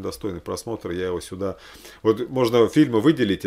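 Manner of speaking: ordinary talk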